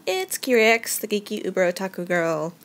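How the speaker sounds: high, bubbly Japanese greeting; chirpy otaku intro voice; excited anime fan. Acted.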